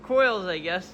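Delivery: muffled, like through a wall. Real, not acted. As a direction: talk as if behind a cover. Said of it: "'cause you sound like you're muffled".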